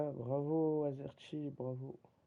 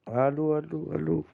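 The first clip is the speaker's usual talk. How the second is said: mic check; 3 semitones higher, 9 dB louder than usual. Real, not acted. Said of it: "mon micro, il est bien".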